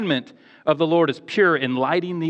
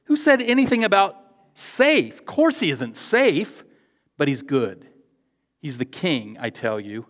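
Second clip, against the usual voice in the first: Mister Beaver protesting. Retold or imitated. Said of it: "said Mister Beaver".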